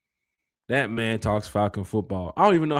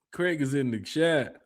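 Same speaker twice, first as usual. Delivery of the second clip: slow deliberate; 2 semitones higher, 4 dB quieter, slower than usual. Real, not acted. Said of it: "repeated slower".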